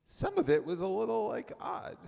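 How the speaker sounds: whispered aside. Acted. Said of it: "Let's be the wife".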